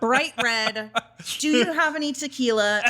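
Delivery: high, loud, laughing mock panic; laughing client panic. Mocking a pro client freezing on camera, laughing high. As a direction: laugh through a client's stage fright.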